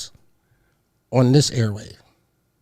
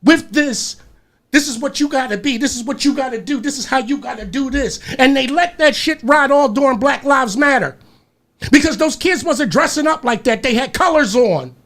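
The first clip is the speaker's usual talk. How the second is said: worked-up venting at a raised pitch; pissed off; 5 semitones higher than usual. Real, not acted. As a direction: keep the upset going, pitched high. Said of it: "I'm damn pissed off about it".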